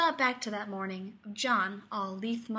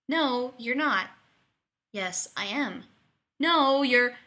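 bickering; 3 semitones higher, 6 dB louder, slower than usual. A narrator's reading. Undignified bickering between the two.

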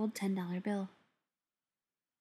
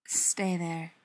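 lower-pitched, controlled command; firm order; 4 semitones lower than usual. A narrator's reading. Beckett to frightened Ryan on the phone, ordering firmly. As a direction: order it low and firm, without shouting. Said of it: "Beckett ordered".

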